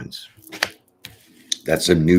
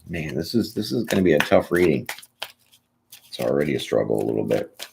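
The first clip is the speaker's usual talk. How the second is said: ordinary talk, nothing marked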